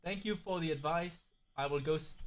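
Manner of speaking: very soft mock-grateful reply; hushed role-play. Streamer voices Rick thanking for advice, very softly. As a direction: play the grateful viewer, barely audible.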